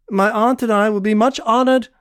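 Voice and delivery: half mocking. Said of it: "half mocking, half formal".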